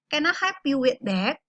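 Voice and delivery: "Can I help you with that?" with falling intonation; teacher modelling falling intonation on "with that". Shown as a demonstration. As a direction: let the tune drop towards "that". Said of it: "With falling intonation".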